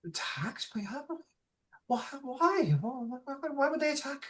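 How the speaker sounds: shocked disbelief. Acted. Learning their city was destroyed.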